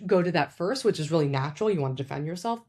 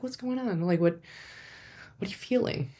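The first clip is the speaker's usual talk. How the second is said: gentle asking; 4 semitones higher, 5 dB quieter than usual. Shown as a demonstration. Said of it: "you can ask".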